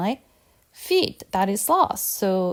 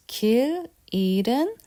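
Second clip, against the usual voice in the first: slowly; 3 semitones higher, faster than usual. Shown as a demonstration. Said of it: "if I say this slowly".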